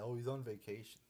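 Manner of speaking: lightly sarcastic parroting of the excuse; mock excuse. Ranting fan quotes the show's excuse, mildly sarcastic. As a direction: parrot the excuse with mild disdain. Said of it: "I hate how they say that".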